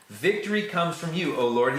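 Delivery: praying with growing conviction; emphatic declaration. Acted. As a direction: lift VICTORY high and proclaim it. New prayer repeated with conviction.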